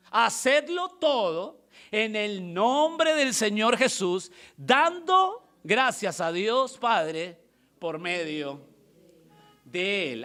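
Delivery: slow, drawn-out declaimed verse; scripture reading. Acted. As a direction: read the verse out weightily, phrase by phrase. Reads the Bible verse aloud.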